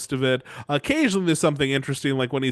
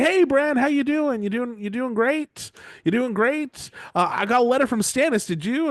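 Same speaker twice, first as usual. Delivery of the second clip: chummy, much higher lord voice; overeager lord; 8 semitones higher than usual. Retold or imitated. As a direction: gush at him like a pushy old lord. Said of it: "and he's like".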